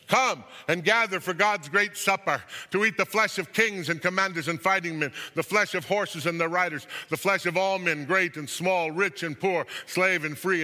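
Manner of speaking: loud declaimed invitation; calling aloud. A narrator's reading. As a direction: call out to birds far overhead. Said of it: "calling aloud to all the birds".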